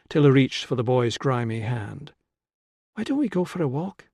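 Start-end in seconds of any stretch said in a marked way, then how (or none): 2.9-4.1 gentle suggestion. A narrator's reading. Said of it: "she suggested".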